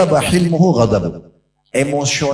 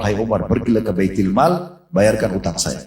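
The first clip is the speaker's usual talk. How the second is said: calm instruction; 4 semitones lower than usual. Retold or imitated. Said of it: "dengan sangat tenang".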